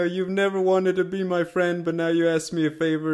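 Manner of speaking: lightly voiced mob boss; hint of a stern don; Godfather impression. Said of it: "his whole thing in that scene is like".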